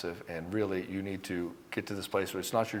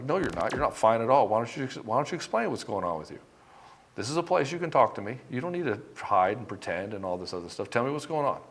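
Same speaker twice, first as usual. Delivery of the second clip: calm firm invitation. Shown as a demonstration. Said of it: "You could say it just like that".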